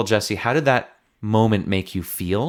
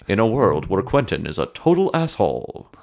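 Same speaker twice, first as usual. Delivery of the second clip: movie trailer voice. Shown as a demonstration. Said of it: "switching to this very serious trailer voice".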